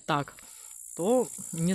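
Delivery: muffled through napkin; wiping mouth while talking; napkin over mouth. Real, not acted. Seen 0: Woman speaking presses napkin over mouth, lowers it by 1.1s.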